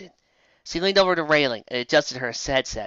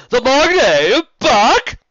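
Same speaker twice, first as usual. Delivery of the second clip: higher, louder cry of shock; shocked exclamation; 11 semitones higher, 11 dB louder, much slower than usual. Acted. Prince cries out to guards in shock. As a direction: blurt it in disbelief.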